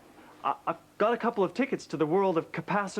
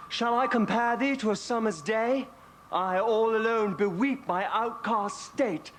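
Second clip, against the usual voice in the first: put-on slow, higher recital in an English accent; 4 semitones higher, slower than usual. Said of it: "don't forget the English accent".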